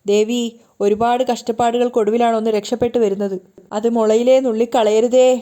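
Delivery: mild pleading prayer, slowing at the end; praying to goddess. Acted. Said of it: "ദേവിയോട് പ്രാർത്ഥിക്കുകയാണ്".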